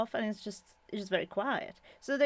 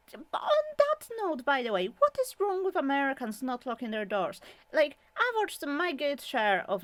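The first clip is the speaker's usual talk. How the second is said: higher, heated rant at a cultural habit; exasperated rant; 4 semitones higher than usual. Real, not acted. Vlogger ranting to viewers about unlocked doors, exasperated and higher. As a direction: pitch it up and vent in disbelief. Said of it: "Sorry, rant".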